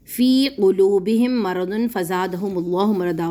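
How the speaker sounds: slow recited Quran verse; measured tajweed reading; verse recitation. Acted. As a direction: chant the verse steadily.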